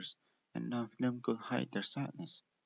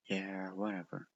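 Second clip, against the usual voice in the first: lower, softer dismissive mutter; sulky brush-off; 4 semitones lower, 4 dB quieter than usual. A narrator's reading. Prism brushing off Candy, sulky and hurt. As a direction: shrug it off, hurt.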